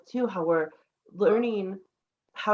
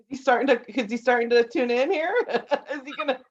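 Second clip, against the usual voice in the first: amused, higher and louder, through laughter; real laughing; 5 semitones higher, 3 dB louder, faster than usual. Real, not acted. Host noticing the little one tuning in, laughing. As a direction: ask it while giggling. Child joins in, she laughs.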